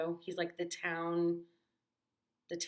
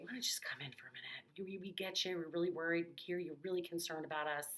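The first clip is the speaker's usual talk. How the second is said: soothing. Retold or imitated. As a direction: gently invite her inside. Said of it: "give her a robe and hug her and say".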